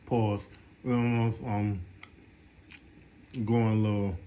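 talking while chewing candy; words round a fruit snack; mouth full. Real, not acted. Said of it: "I'm eating a fruit snack right now".

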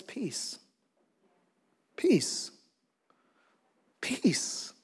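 hushed, calm one-word command; quiet, breath-soft calming of a storm; not a shout. Retold or imitated. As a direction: say it softly, letting each word hang. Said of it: "I don't think it was a shout".

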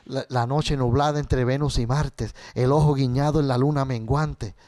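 a tender recited poem; poem recital. Real, not acted. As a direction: recite it gently to his daughter. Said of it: "yo tengo un poema".

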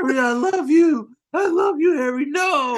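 mock tearful farewell; hammed-up crying. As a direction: wail the goodbye in a fake cry. Voicing Liv Tyler crying.

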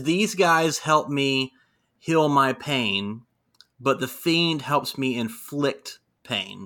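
slow, deliberate Bray quote; slow measured villain line; corrected slow quote. Retold or imitated. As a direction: spell it out slowly, word by word. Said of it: "no, no, no, no".

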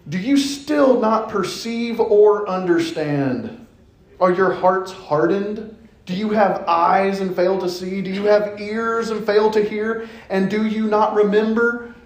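snarky. Retold or imitated. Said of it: "Jesus is being a little snarky".

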